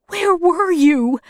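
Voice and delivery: high, slow, anguished question; soft cry. A narrator's reading. Mother asks returning children where they were, softly crying out. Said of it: "she cried softly".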